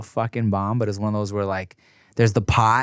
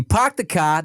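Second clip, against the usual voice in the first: Boston accent; 5 semitones higher than usual. Shown as a demonstration. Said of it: "That's Boston".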